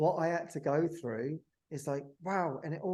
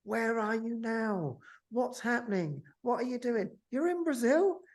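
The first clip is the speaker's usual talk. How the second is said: rapid-fire curious relatives, pitch rising higher with every question; eager family questions; 10 semitones higher, 7 dB louder than usual. Retold or imitated. Family now eagerly asking questions.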